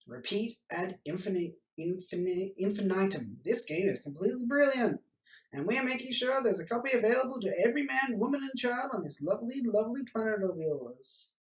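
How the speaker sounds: a hint of a grandiose alien salesman. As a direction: sell the game like a grand envoy. Alien continues sales pitch.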